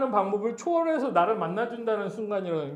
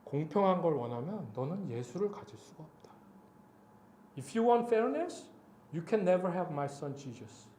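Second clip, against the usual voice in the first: lightly voiced divine pronouncement, measured; God's voice; 2 semitones lower, 4 dB quieter, slower than usual. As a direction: quote God solemnly, without raising the voice. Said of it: "딱 이 말씀하시더라고". (담담하게 전하는 하나님의 음성)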